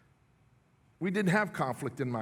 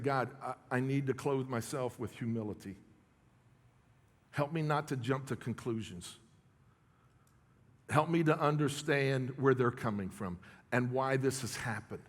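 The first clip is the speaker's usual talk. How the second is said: soft, lower retold prayer; hushed prayer; 4 semitones lower, 5 dB quieter than usual. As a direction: pray it quietly, inward. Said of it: "one of my prayers have been".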